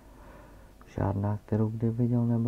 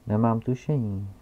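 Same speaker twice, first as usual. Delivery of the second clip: put-on old geographer; 5 dB louder than usual. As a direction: announce your title with pompous weight. Geographer character voice. (hlasitý, pomalý a důležitý starý zeměpisec)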